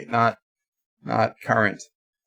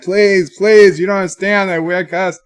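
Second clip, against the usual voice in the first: higher, insistent begging; mildly exasperated appeal; retold pleading; 5 semitones higher, 3 dB louder than usual. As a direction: plead to be understood, retelling it. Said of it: "I was trying".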